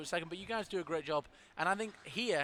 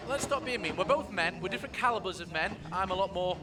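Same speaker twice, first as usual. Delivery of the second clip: showing off. Acted. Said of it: "showing off".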